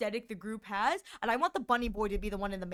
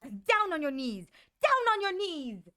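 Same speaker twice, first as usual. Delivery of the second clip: put-on bossy bunny girl; 2 semitones higher, 4 dB louder than usual. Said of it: "I want her to be like".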